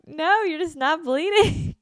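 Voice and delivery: high, loud, slow mock nurse. Nurse says she is not bleeding, hammed-up high. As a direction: ham up the deadpan nurse.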